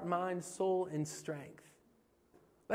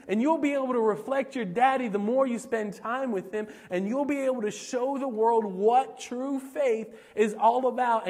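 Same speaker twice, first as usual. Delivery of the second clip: raised, driving sermon delivery; impassioned preaching; 3 semitones higher, 3 dB louder than usual. Real, not acted. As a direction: preach it in building, repeated phrases. Preaches at full force.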